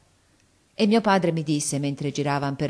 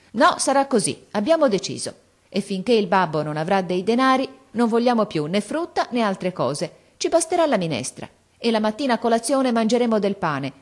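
lightly voiced girl, firm and raised; a hint of a daughter who won't be refused; determined girl; 3 semitones higher than usual. Silvia insisting to her mother, a touch of determination.

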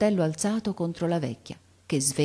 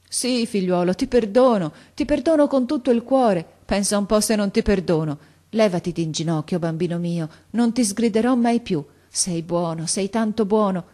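higher, louder, emotional outpouring; fervently forgiving grandmother; 5 semitones higher, 6 dB louder than usual. A narrator's reading. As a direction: forgive with all your heart. (nonna commossa che perdona con slancio)

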